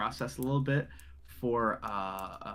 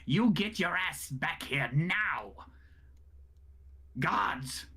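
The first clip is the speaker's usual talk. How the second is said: angry command; 4 semitones higher, much slower than usual. Acted. Noble yells after Thrud.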